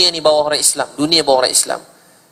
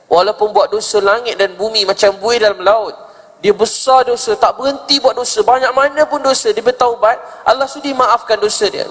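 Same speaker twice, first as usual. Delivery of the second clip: high, insistent retold plea; emphatic retelling; 7 semitones higher than usual. Woman repeating the sermon to the ustaz, high and emphatic. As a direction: relay the promise in a raised, pressing voice. Woman relays preacher's promise of forgiveness.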